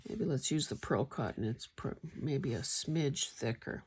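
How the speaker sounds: talking around a needle in mouth. Real, not acted. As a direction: speak with a needle between lips. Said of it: "I got a needle in my mouth".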